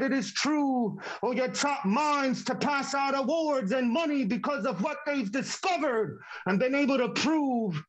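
rhythmic performance poetry, building and falling; spoken word poem. Acted. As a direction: perform it like a slam poem on stage.

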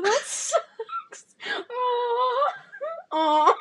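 high mock sympathy; mock sympathetic coo. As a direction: coo over him sweetly. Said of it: "I'll be Grace".

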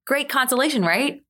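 dry sarcasm, pitch lifted on consolation; sarcastic. Real, not acted. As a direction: say it with a sarcastic edge. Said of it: "That was supposed to be sarcastic".

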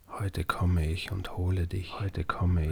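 slow, soft scary-story voice; spooky storyteller voice. Acted. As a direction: draw it out to frighten a child. Child's ghost story retold.

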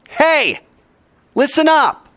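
high, loud call for attention. Shown as a demonstration. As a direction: call the room to listen. Voices the meaning of Shema.

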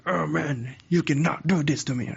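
half-hearted angry protest; mock angry. Shown as a demonstration. Showing listeners how to act angry, mock anger. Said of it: "if you're angry, what do you do".

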